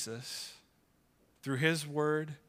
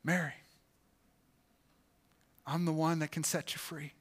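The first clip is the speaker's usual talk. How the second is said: lightly voiced Jesus calling her to freedom; tender calling. Jesus tenderly calling Mary to come to him. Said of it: "It was".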